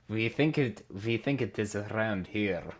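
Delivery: put-on slow, deliberate stab at a German accent; half-successful Germanic accent; attempted German accent. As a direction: try a German accent, drawing it out. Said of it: "That's closer to German".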